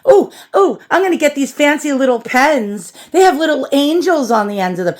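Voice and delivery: high, breathless mock delight over cute pens; mock gushing shopper. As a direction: gush like a giddy shopaholic. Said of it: "No more shopping on, like".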